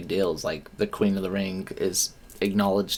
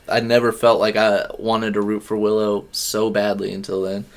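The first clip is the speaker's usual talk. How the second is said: ordinary delivery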